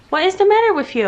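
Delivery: talking to a dog. Real, not acted. Scolding the dog.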